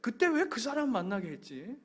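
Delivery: high-pitched comic lament of regret; half-joking, wistful "why, God" grumble; acted mild grumbling. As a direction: imitate someone moaning about past choices. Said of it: "이렇게 원망은 아니더라도".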